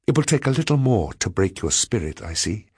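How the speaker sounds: high-pitched, deliberate defiance; passionate retort. A narrator's reading. Woman warning the man who spurned her, passionate retort. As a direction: declare it with controlled passion. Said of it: "with a passion that equaled my own".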